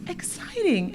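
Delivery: exciting sung out high and bright on the first take; a burst of real delight at the news; delighted exclaim. Real, not acted. Thrilled speaker cheering the kids' dragon fruit, high exclaim.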